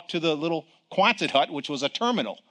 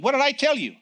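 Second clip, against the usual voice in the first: voice of God; 9 semitones higher than usual. Retold or imitated. God reminding the fearful preacher, firm and raised. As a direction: play God rebuking a doubter. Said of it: "He said".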